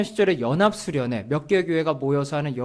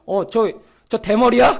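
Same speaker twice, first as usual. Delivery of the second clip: mock indignant questioning; retold indignation; 3 semitones higher, 3 dB louder than usual. Youth president spots the offending pastor at worship, retold indignation. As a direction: act out an older friend bristling on your behalf. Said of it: "저 대신 막 화를 막 내는 거예요".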